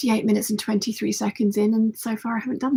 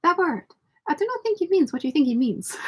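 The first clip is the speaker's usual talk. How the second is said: put-on higher, measured Spanish-accented voice; Inigo impression; 7 semitones higher than usual. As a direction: deliver it gravely like Inigo. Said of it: "And Inigo is like".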